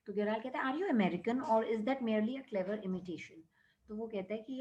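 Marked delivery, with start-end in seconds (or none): 0.7-3.4 slow, deliberate reading of the English text; measured classroom read-aloud; story reading. A narrator's reading. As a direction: read each word out carefully for the class. Reads English story lines aloud.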